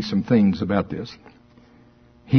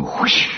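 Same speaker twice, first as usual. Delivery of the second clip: whip sound. Retold or imitated. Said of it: "however you do a whip sound".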